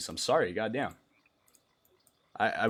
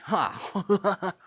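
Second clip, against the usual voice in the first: cool sleep-deprived laugh; 5 semitones higher than usual. Acted. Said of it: "cool sleep deprived, which is me".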